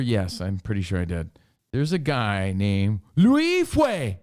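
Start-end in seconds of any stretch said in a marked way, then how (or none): 3.2-4.2 exaggerated mock-Asian accent on the name; caricatured Asian-accent shout; Asian emphasis. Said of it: "I'm just putting the Asian emphasis on it".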